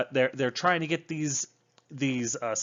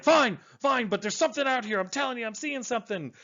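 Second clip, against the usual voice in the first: insistent intern; 9 semitones higher than usual. Retold or imitated. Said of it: "the intern's like".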